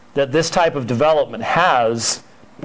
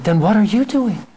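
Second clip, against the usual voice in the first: higher, mock pointed question; pointed retort; 7 semitones higher than usual. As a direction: turn it back on him with a knowing jab. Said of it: "And she looks in and says".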